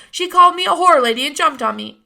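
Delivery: loud, high wail for Grandma; bawling. A narrator's reading. Francis bawls to Grandma, loud wail. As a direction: bawl it like a wronged boy. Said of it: "he bawled".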